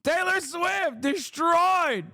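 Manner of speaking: gloating mock shout, stretched out; mock gleeful cheer. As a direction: cheer it out like a giddy fan, hammed-up. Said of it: "She's like".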